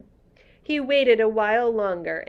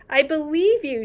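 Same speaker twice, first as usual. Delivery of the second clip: softly; 8 semitones higher, 7 dB louder than usual. Acted. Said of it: "she said softly".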